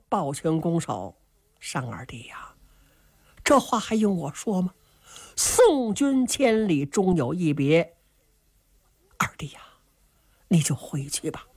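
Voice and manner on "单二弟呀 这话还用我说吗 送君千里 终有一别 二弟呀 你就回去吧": tearful farewell whisper. Acted. Qin Qiong bids his sworn brother goodbye, hushed and tearful. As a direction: whisper your farewell as if choking up. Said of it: "哥儿俩是洒泪而别".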